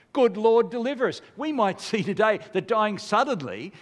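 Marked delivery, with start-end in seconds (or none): 0.1-1.2 1 loud response. Acted. Repeating the congregational response.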